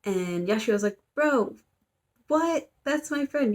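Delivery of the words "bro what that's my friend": much higher and louder, mock outraged; shocked protest. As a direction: squeal it out like your friend just got zapped. Friend attacked, she protests.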